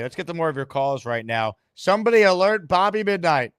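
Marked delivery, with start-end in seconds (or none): 1.7-3.5 hyped call-out. Real, not acted. Host hypes rival caller.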